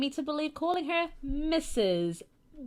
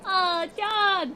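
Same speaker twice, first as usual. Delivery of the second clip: high, louder mocking call; mock girly call; 8 semitones higher, 3 dB louder than usual. Mocking Hana greeting John, high girly call. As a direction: ham up the girlish greeting.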